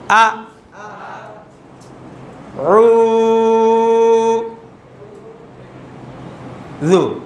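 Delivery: each syllable apart with long gaps; broken up syllables. Shown as a demonstration. Teacher spelling a word syllable by syllable for the class. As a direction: spell it out one syllable at a time. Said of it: "আমি এখন ভাঙা ভাঙা উচ্চারণ করব".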